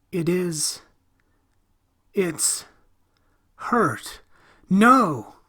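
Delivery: put-on child in pain, rising to a shriek; frightened scream. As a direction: start hurt and break into a terrified scream. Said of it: "Tommy screamed".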